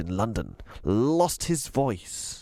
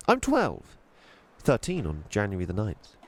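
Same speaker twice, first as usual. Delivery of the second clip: put-on young girl voice. Voices Chloe.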